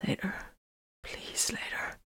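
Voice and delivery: barely audible, weak whisper; faint, whispered put-off; faint plea. A narrator's reading. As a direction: beg off with no strength left. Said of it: "Vox's voice trailed off".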